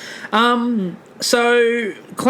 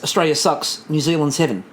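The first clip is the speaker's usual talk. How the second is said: put-on Kiwi accent; 3 semitones lower than usual. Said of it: "when you say it in a Kiwi accent".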